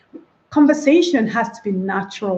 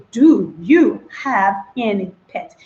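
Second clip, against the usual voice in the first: slow careful model; slower than usual. Shown as a demonstration. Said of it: "Remember, it is".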